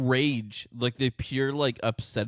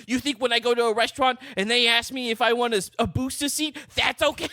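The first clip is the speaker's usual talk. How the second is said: mock ranting short man; 8 semitones higher than usual. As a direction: ham up the furious little man's outrage.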